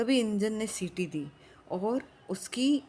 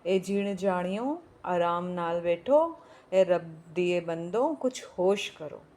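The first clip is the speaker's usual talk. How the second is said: put-on pleading old woman; slower than usual. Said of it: "बुढ़िया बीच में फिर बोल रही".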